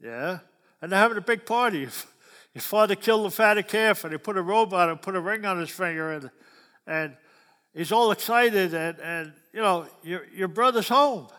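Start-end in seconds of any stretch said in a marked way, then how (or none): 0.8-5.2 excited telling. Retold or imitated. Excited servant retelling feast. 10.0-11.3 excited announcement. Retold or imitated. Servant announcing brother's return.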